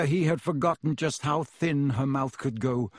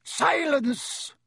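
much higher, sharp barked command; snapped shout; 13 semitones higher than usual. A narrator's reading. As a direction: slap the word down. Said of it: "snapped Snape again".

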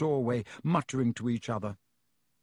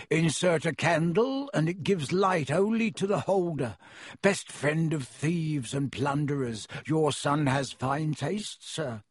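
oily shopkeeper; 2 semitones higher than usual. Acted. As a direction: flatter the rich customer. Shopkeeper Borgin voiced.

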